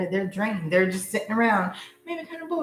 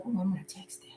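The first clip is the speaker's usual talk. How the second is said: sleepy mumble; 3 semitones lower, 11 dB quieter, much faster than usual. Pretend. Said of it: "They wake up and be like".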